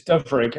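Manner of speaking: Dyfrig said slowly in Welsh, DUV-rig; name pronunciation. Shown as a demonstration. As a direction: say Dyfrig carefully with Welsh sounds. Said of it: "How do you, how do you say it?".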